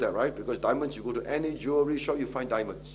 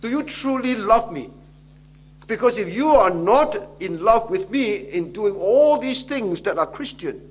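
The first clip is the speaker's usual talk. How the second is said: voicing the Lord; 6 semitones higher, 6 dB louder than usual. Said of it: "The Lord says".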